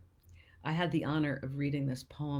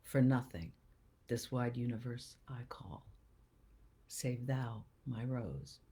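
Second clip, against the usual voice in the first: sonnet recital. Acted. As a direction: recite it earnestly, phrase by phrase. Formal reading of the sonnet.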